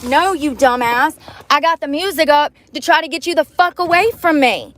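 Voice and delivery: fed-up furious scolding; angry rant. Real, not acted. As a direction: snap at the creep who isn't there. Ranting at absent creep.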